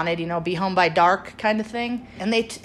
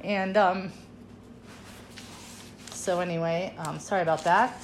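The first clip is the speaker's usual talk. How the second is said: fighting back tears, real; getting emotional; 3 semitones higher than usual. Real, not acted. Daughter remembering her mother's beauty, choked up and emotional. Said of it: "sorry, I'm getting emotional".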